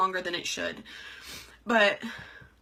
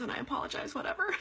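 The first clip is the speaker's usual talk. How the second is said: laughing through tears; 4 semitones higher, 8 dB quieter, faster than usual. Real, not acted. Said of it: "I know you guys don't like emotions".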